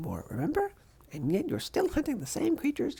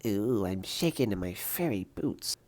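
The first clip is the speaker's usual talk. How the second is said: sarcastic; 14 semitones lower, slower than usual. Acted. Sarcastic reply to threat.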